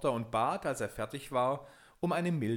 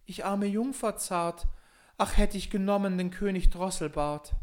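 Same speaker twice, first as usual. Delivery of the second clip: lament; 8 semitones higher, 6 dB louder than usual. Acted. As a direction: mourn the lost king in a high voice. Klagende Prinzessin im Wald. (hohe, langsame Klage der Prinzessin)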